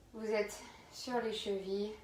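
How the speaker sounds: slow pose cues with long pauses; yoga guidance. Real, not acted. Yoga teacher guiding students into child's pose, slow calm instruction. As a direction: lead the movement gently, phrase by phrase.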